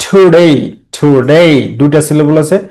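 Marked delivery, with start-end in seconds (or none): 0.1-0.6 "Today" with light "To" and strong "day"; teacher demonstrating "Today" stressed on "day"; stress on second syllable. Shown as a demonstration. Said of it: "আর ডেটা হচ্ছে stress". 1.0-1.5 "today" with weak "to", stressed "day"; "today" ending on a rising, stressed "day"; stress on second syllable. Shown as a demonstration. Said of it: "আর ডেটা হচ্ছে stress".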